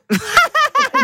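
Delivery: short burst of laughter at her own joke; bright laugh. Real, not acted. Radio host laughing at caller's joke about the neighbours.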